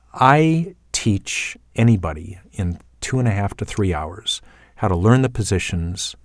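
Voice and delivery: ordinary talk, nothing marked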